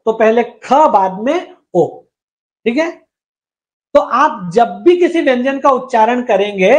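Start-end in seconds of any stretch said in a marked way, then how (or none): 0.1-1.9 "पहले ख, बाद में ओ" with each sound isolated; aspirated "ख" alone, then a slow separate "ओ"; syllable sounded out. Shown as a demonstration. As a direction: split the syllable for a learner, "ख" then "ओ". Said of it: "बोलो, आप बोल के देखो".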